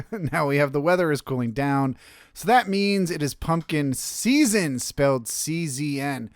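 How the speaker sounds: a touch of booming radio ad. Pretend. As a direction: punch the season like a radio spot. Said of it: "in your most radio voice".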